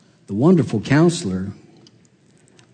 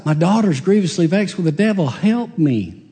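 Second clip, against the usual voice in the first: 1 crying mother; 6 semitones higher than usual. Retold or imitated. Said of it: "she cries".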